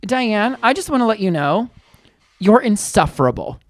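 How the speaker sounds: imitated calm, measured telling-off. Man telling Diane off, very calm. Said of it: "in a very calm tone".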